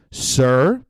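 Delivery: understated, measured request; calm staffer. Retold or imitated. Staffer to the fuming customer, mildly acted calm. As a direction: calmly settle an angry customer. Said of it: "He calmly walks up to me".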